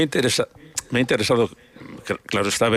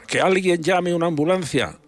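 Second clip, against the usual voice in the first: imitated cry for help; 7 semitones higher than usual. Man retelling an irritating film scene, mock shout. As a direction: act out a bystander calling out, pitched up. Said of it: "una persona grita".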